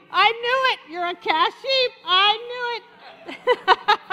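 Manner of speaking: loud, high teasing accusation; mock gotcha. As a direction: shout it like you caught them. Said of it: "You're like".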